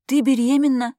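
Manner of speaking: high, loud astonished cry; stunned disbelief. A narrator's reading. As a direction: gasp it out in total shock. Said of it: "открыла рот она".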